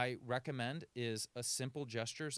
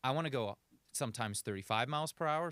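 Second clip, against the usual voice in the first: faster and louder for thirty-five; speeding up; 2 semitones higher, 5 dB louder than usual. Shown as a demonstration. Coach shows clients a faster gear, louder and quicker. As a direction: push it forward with energy. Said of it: "vary your speed".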